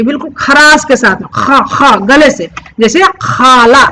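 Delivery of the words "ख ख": ख with a rasping throat sound; throaty kh. Shown as a demonstration. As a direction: scrape ख from the throat. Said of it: "आवाज बिल्कुल गले से निकलनी चाहिए". (ख को खराश के साथ गले से)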